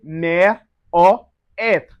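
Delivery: "mère or être" with open eh vowels. Shown as a demonstration. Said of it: "So we say".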